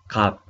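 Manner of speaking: 갑 ending in a lip-closed stop; closed-lip final sound. Shown as a demonstration. Teacher repeats a new word for students, closed-lip ending on 갑. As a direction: say 갑 and close the mouth on ㅂ. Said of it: "igual cerrando la boca".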